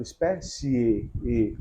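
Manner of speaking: "Espécie" drawn out slowly to a closed final e, then the e repeated; closed final vowel. Shown as a demonstration. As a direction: say "Espécie" slowly, tightening the lips on the last e. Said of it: "contrai os lábios". ("Espécie" devagar, com o e final fechado, contraindo os lábios)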